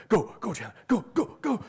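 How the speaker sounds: mock cheering. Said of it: "you just hear my voice be like".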